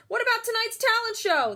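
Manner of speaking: high, loud excited question; eager fans asking. A narrator's reading. Fans asking the star about the show, excited.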